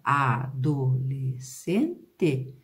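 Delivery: ADOLESCENTE broken into a-do-les-cen-te with gaps; syllable by syllable. Shown as a demonstration. Teacher showing S C doesn't stay together, separated syllables. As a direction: pause after every syllable of adolescente. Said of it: "quando eu separo a palavra".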